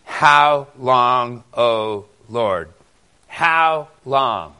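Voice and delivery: loud, drawn-out lament of the psalmist; anguished cry. Shown as a demonstration. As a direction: cry it out to God. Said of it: "Look there in the first verse".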